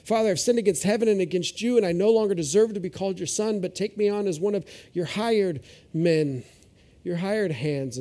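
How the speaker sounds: quick, eager rehearsed apology; rehearsing son. Retold or imitated. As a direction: run through the speech fast like practicing it. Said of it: "He's gonna practice the speech".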